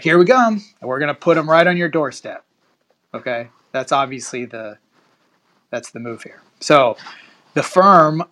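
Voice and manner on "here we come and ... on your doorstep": lightly acted taunt, higher and louder at first; mock taunt. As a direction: announce it like a mock challenge, then settle. Voices the senders' taunt to Northeast.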